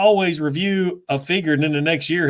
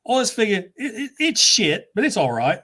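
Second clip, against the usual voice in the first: higher-pitched mock verdict, breaking into laughter; imitated reviewer; 7 semitones higher than usual. Collector imitating a favorite reviewer's grumbling, mock complaint. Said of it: "he'll sit there and goes".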